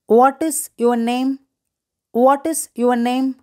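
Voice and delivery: slow, measured teacher demonstration; slow model phrase. Shown as a demonstration. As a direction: say it slowly for learners to repeat. Teacher models English phrase to repeat.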